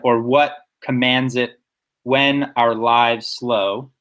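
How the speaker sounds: measured verse with beats on WHAT, comMANDS, WHEN, LIVES, SLOW; slow down on "when our lives slow", each stress weighted; stressed scansion. Shown as a demonstration. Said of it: "I'm hearing those stresses".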